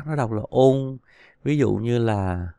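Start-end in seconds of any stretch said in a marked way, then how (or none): 0.5-1.0 "ôn" halfway between ông and ung; in-between vowel. Shown as a demonstration. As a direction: blend ông and ung into one nasal "ôn". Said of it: "nó giữa hai cái đó".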